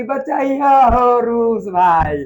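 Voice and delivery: slow, drawn-out mock plea for help; pleading cry for help. Teacher playing France begging Russia, slow mock plea. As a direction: stretch it out like begging a big brother. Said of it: "France चिल्ला रहा है कि".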